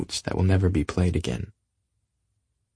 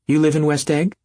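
contemptuous; 8 semitones higher, 4 dB louder than usual. Acted. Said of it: "she remarked contemptuously".

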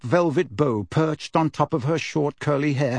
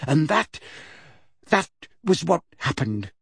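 trailing off weakly; a limp, unsure ending; lamely; 3 semitones higher than usual. Acted. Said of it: "somewhat lamely".

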